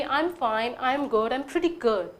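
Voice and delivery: very slow, each word laid out; slow model reply. Shown as a demonstration. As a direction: spell the reply out slowly for learners. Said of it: "इसके reply में वो आपको दे सकते हैं". (धीमे-धीमे साफ़ बोला गया जवाब)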